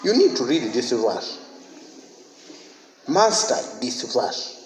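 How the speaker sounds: slow, weighted words with stress on need and master; slow emphasis. Real, not acted. Pastor urges the church to master the verse, slow and stressed. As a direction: lean hard on need and master. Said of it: "Italics supplied. Emphasis".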